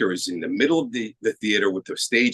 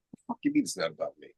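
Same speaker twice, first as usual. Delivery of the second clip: incredulous outburst; 11 semitones higher, 9 dB quieter, much faster than usual. Retold or imitated. Frustrated reaction to director.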